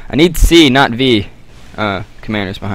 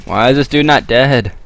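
frustrated outburst; 4 semitones higher, 5 dB louder than usual. Real, not acted. Frustrated at surviving enemy.

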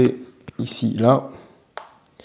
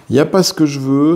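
louder, annoyed at the dice; frustrated repeat; 2 semitones higher, 3 dB louder than usual. Real, not acted. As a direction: let the irritation out on "pas". Mauvais lancer de dés, répété. (répétition agacée, plus forte, appui sur "pas")

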